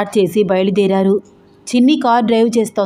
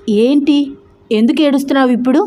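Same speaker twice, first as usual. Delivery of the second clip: surprised; 4 semitones higher than usual. Acted. Wife startled to see her husband in tears, quick surprised question. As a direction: caught off guard, asks quickly.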